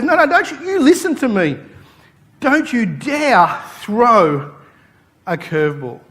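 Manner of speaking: a high, loud yell that slows right down on the last words; furious coach. Retold or imitated. Coach losing it with the pitcher over the curveball, high furious yell. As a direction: lose it at the pitcher, then drag out the warning.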